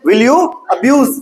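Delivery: slow, each word set apart; patient slow drill; slow teacher repeat. Shown as a demonstration. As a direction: repeat it slowly for a stuck pupil. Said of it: "उसी बात पे अटकी खड़ी है".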